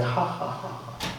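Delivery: soft, acted chuckle; quiet, spelt-out mocking laugh; mock Shaitan laugh. Shaitan laughs at the curious alim, softly mocking. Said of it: "Shaitan starts laughing".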